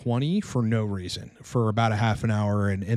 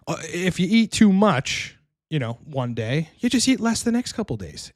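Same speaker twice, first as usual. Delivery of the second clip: higher, slow imitation of an Italian accent; old Italian barber accent; 6 semitones higher than usual. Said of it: "He said in his Italian voice".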